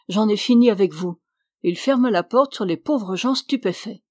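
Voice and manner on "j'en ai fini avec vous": louder dismissive shout. Acted. Priest dismisses the Irish couple, louder shout. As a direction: bark them out of the room. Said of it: "cria-t-il au couple irlandais".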